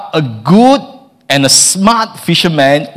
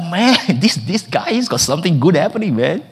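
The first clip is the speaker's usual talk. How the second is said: hushed aside; 5 dB quieter than usual. Retold or imitated. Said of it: "They'd be like".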